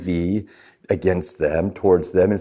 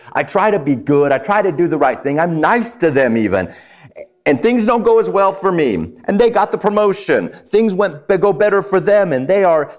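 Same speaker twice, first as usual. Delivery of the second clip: aggrieved complaint; 6 semitones higher than usual. Pretend. Preacher voicing a hurt listener: mild aggrieved complaint. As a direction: whine it like someone who feels cheated.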